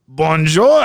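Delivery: lightly put-on French Canadian greeting; mock French Canadian. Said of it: "they're like".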